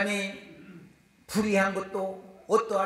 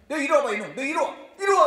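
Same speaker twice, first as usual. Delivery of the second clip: a hint of a stern grandfather calling him over; mildly gruff, commanding come here; 7 semitones higher, 5 dB louder, faster than usual. Preacher voicing grandfather scolding the son, mildly stern.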